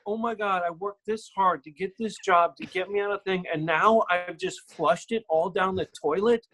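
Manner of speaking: mock self-berating. Actor scolding himself for blowing the job, retold exasperation. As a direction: replay beating yourself up, mildly frantic.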